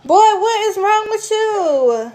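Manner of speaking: high, slow, loud laughing shout; laughing scold. Real, not acted. Mother scolding her little son, laughing.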